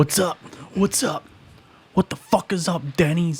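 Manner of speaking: high-pitched meme greeting; squeaky meme shout. Retold or imitated.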